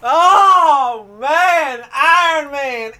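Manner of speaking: high, loud, slow hammed-up wailing cry; mock wail. Podcast host mock-mourning Chadwick Boseman, hammed-up loud wail.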